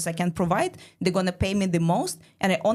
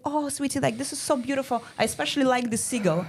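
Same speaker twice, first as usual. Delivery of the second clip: put-on higher, sugary praise for a child; doting dad; 5 semitones higher than usual. Dad admiring his daughter's picture, a higher, sugary voice. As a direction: gush over the drawing like a proud parent. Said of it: "her dad looks at the picture and she's like".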